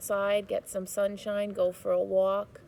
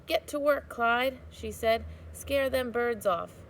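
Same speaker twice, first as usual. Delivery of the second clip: put-on old woman bossing; 3 semitones higher than usual. Old woman ordering scarecrow.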